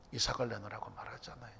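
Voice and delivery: hushed whisper, low and soft. Acted. Preacher retelling God's hard demand, whispered. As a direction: drop to a secret whisper.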